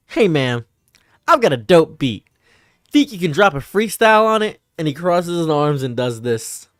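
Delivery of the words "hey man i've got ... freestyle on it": lightly voiced corny sitcom dude; a hint of a sitcom white guy pitching a beat; eighties sitcom guy. White guy approaches you in an eighties sitcom, lightly hammed-up. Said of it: "like, a white guy, approaches you and he says".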